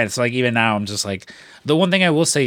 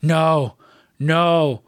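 excited disbelief; 5 semitones higher, much slower than usual. Retold or imitated. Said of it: "And he's just like".

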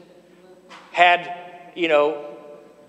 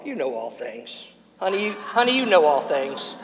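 mock husband to wife; 6 semitones lower, 4 dB quieter than usual. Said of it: "turn to your wife and say".

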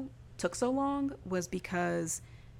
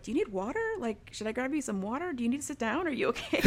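higher, questioning mock concern; hammed-up concern; 6 semitones higher, faster than usual. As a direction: fuss over someone with lifted, rising questions. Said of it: "really hamming it up".

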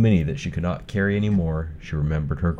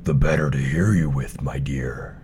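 whispered, sly wolf; 3 semitones lower than usual. Acted. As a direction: breathe it as a creeping wolf. Wolf disguised as grandma.

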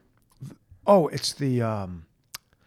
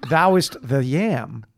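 archaic decree; 3 semitones higher, slower than usual. Pretend. Adam naming things, archaic.

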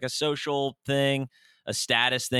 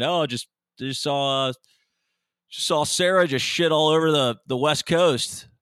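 mock girlfriend voice; 4 semitones higher, 5 dB louder than usual. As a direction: put on the girlfriend's gushing app update. Girlfriend's imagined app notification.

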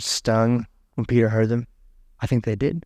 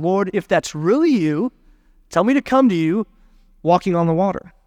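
mildly raised, higher-pitched call; 4 semitones higher than usual. Acted. Peter calls to Jesus from the boat, calling out higher. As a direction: call out across a distance, without shouting. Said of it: "Peter called out to him".

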